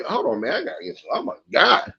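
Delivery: hiccuping mid-sentence; hiccups. Real, not acted. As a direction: talk through hiccups. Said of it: "hiccups getting to you, bro".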